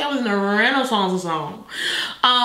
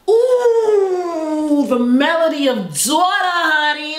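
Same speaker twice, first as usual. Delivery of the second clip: excited outburst; 3 semitones higher than usual. Real, not acted. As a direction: burst out in excitement. Excited reaction to song.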